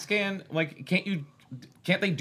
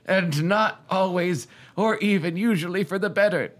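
put-on storytelling voice, higher than usual chat; committed narrator voice; 3 semitones higher, 3 dB louder, slower than usual. Host reading a novel aloud in a committed narrator voice. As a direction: read it out with a narrator's measured formality.

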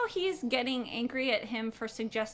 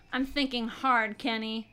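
Matthew McConaughey. Retold or imitated. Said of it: "Matthew McConaughey?".

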